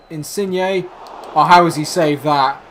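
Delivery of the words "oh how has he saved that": disbelieving. Real, not acted. Disbelief at a great save.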